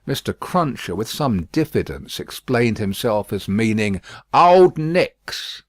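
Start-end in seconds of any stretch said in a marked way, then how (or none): 4.3-5.6 rough porter muttering the name; a hint of a rough porter; gruff Jerry. A narrator's reading. Jerry voiced.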